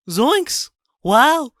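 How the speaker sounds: high squeaky cartoon enthusiasm; halting exclamations climbing into a squeak; Shaggy. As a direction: humour a child in a high cartoon voice. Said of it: "Shaggy reacting to a child".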